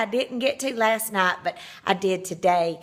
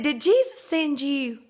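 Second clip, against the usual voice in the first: slow pointed question; 4 semitones higher, slower than usual. Retold or imitated. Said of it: "And I said".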